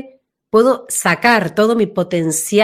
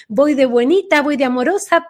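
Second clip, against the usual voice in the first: put-on sweetness; 5 semitones higher than usual. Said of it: "las vocecitas justamente muy altas".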